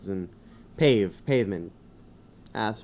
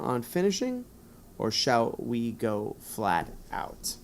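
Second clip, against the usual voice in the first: 1 gamebook read-aloud; 2 semitones higher than usual. Acted. Reads Zokil's lines from gamebook.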